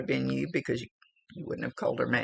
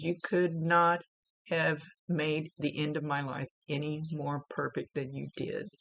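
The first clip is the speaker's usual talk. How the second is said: tearful. Real, not acted. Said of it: "they make me cry".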